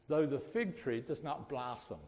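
verse in a Suffolk accent. Shown as a demonstration. Preacher shows congregation his Suffolk accent on a Bible verse, Suffolk accent. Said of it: "my Suffolk accent comes out perfectly".

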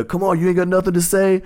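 high mock challenge; hammed-up high taunt; taunting comic. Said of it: "she was like".

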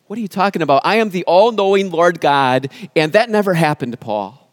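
the all-knowing Lord insists it never happened; firm Lord's voice. Acted. Preacher voices the Lord firmly.

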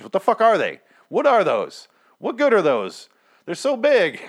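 high, loud baffled outburst; incredulous. Real, not acted. Vlogger baffled by a soldier's giant cards, loud incredulous outburst. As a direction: exclaim in disbelief at the oversized cards.

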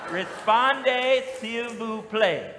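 "Répondez, s'il vous plaît" in a drawn-out Southern accent, ree-SPON-day seel voo play; Southern-accented French for the congregation. Shown as a demonstration. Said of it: "Y'all try to say that with a southern accent".

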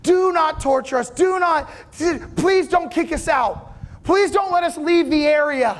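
the demons plead with Jesus, half-shouting; desperate begging. Acted. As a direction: beg like your life depends on it. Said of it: "they start begging".

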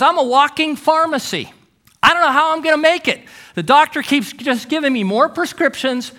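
mildly overwhelmed, pouring it out; distressed. Retold or imitated. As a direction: imitate a neighbor spilling his troubles. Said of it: "he looks really, really distressed".

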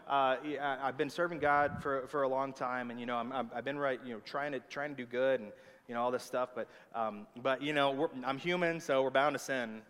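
low, hesitant mumbly imitation; mock excuse-making. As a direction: ramble sheepishly through a borrowed excuse. Imitates people excusing their sin.

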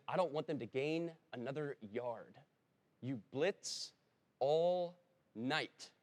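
a football coach firing up his defense; mild mock coach shout; coach's rally.

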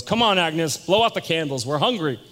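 acted insensitive prodding; impatient urging. Acted Harry hurrying Agnes.

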